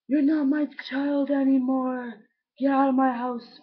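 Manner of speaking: slow, heavy-handed parental outburst; imagined angry dad. Retold or imitated. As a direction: imitate a father throwing someone out. Imagined dad disowning them.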